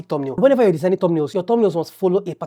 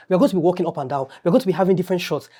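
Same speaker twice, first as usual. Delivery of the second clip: ordinary talk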